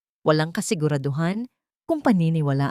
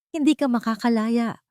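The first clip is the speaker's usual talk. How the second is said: threat; 6 semitones higher than usual. A narrator's reading. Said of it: "banta ni Ralph".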